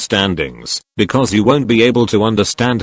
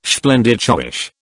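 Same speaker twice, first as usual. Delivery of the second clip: lightly imitated Scottish slur, slowed down; a hint of a slushy Scottish accent, s turned to sh; Sean Connery; slower than usual. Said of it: "Sean Connery's accent".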